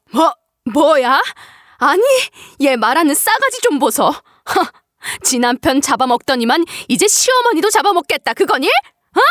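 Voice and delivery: lightly voiced appalled mother-in-law; sputter, then sneer an accusation; scornful scolding ending on a high challenge; outraged mother-in-law.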